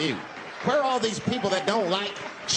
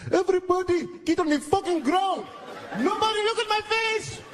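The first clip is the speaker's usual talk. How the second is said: hammed-up gunman yelling at passengers; hijacker yelling; 13 semitones higher than usual. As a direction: bark orders like a panicked hijacker. Hijacker yelling orders on plane.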